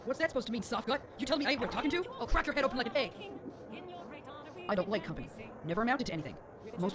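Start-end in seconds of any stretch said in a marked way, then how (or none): 0.1-3.1 tough Nord woman threat. Acted. Nord brawler NPC threatening the player.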